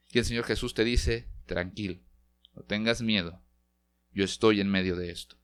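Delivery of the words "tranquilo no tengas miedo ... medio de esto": reassuring Jesus. Acted. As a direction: soothe a worried believer gently. Jesus reassures anxious believer.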